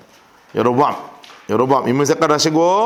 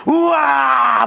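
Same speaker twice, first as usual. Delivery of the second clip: a short mock cheer, a little higher; crowd cheer; 7 semitones higher, much slower than usual. Judah's people cheering at the speech, mock cheer. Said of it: "막 이렇게 했겠죠?".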